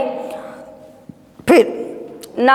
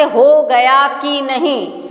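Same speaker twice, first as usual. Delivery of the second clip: spoken example; much slower than usual. Shown as a demonstration. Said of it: "या हम कहते".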